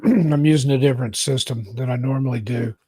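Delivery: throaty, needs to clear throat; talking through a frog in the throat. Real, not acted. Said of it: "Excuse me, frog in my throat".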